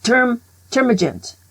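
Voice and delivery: termagant said slowly as TER-ma-gant; spelling it out; careful pronunciation. Shown as a demonstration. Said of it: "this is how you spell it".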